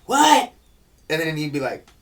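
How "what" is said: cartoon voice. Imitating cartoon character.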